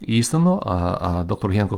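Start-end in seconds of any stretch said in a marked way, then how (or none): 0.0-0.6 emphatic truly. Acted. Teacher rendering the Lord's amen for students, high and emphatic. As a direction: ring out each truly deliberately.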